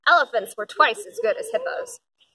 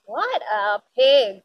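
slow, grumbling aside to herself; hippo's thought; much slower than usual. A narrator's reading. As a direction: mutter it slowly, disgusted. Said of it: "thought the hippo".

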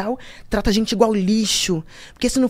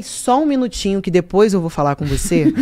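a lower, deliberately gruff voice; deepened voice; 5 semitones lower than usual. Retold or imitated. Telling the rude woman to wait, voice put on low. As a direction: drop the voice low like a tough guy. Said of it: "Aí eu já engrosso a voz".

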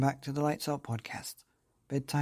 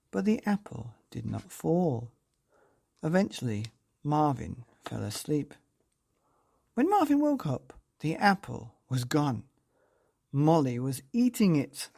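put-on lively, sing-song storytelling voice for children; bedtime story narration; 2 semitones higher than usual. A narrator's reading. Narrator reading a picture book to children, lively and sing-song. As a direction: read it like tucking kids in.

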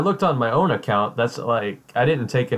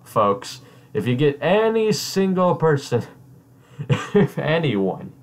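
talk show host; 6 semitones higher than usual. Pretend. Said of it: "we set up this miniature talk show".

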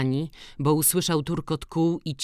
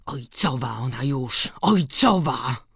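whisper to bitter cry; 3 dB louder than usual. Acted. Antek's bitter inner outburst.

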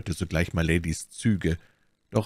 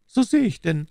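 high, concerned abbess; growing sympathy; 11 semitones higher, 5 dB louder than usual. A narrator's reading. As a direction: begin with rising concern, voice lifted. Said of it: "mit steigender Teilnahme".

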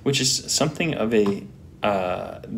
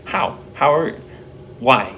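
perplexed; 3 semitones higher than usual. Retold or imitated. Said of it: "Paul is perplexed".

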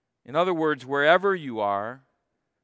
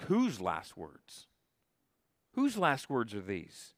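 hushed question; 6 semitones lower, 7 dB quieter, slower than usual. Acted. Pastor's hushed rhetorical question.

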